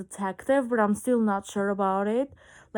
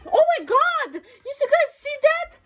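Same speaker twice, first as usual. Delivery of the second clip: much higher, laughing exclamation; laughing shriek; 14 semitones higher, 5 dB louder than usual. Real, not acted. Showing viewers the angry cat, laughing high squeal.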